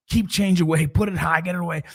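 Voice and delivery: high-pitched retold parental alarm; mock panic, pitched high; terrified parent. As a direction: act out a worried parent warning everyone. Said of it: "now we're terrified".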